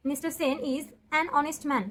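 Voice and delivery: slow and deliberate, each word spaced; slow dictation. Shown as a demonstration. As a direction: read the answer slowly for copying. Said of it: "তো এখানে কি হয়ে যাবে". (ধীরে ধীরে উত্তরটা পড়ে শোনানো)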